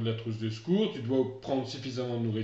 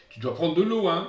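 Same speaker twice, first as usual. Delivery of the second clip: caring warning; 5 semitones higher, 6 dB louder than usual. Retold or imitated. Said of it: "je dis attention Martin".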